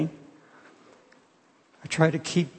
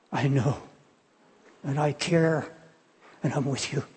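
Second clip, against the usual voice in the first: low, tender reassurance with unhurried pauses; gently comforting; 5 semitones lower, 3 dB quieter than usual. Retold or imitated. Jesus answering someone crying on the bed, gently comforting. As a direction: voice a quiet, consoling reply.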